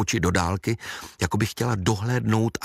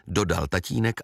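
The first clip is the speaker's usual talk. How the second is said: ordinary delivery, nothing marked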